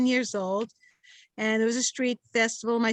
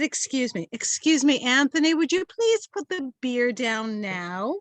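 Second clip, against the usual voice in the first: pointed mock politeness; mock-polite retake. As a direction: ask with exaggerated courtesy. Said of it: "how you said it".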